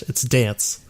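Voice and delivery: "dance" as one English syllable; English pronunciation. Shown as a demonstration. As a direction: insist on English "dance", no final vowel. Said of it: "I'm not pronouncing dance like in Japanese".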